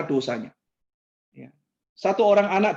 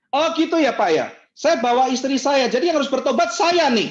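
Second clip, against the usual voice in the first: high, louder indignant parent; offended parent; 7 semitones higher, 4 dB louder than usual. Retold or imitated. Parent complaining to the pastor, indignant.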